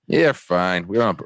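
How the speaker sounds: imitated South Boston police sergeant; South Boston accent. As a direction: do a South Boston cop waving it through. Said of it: "South Boston, right down to his toes".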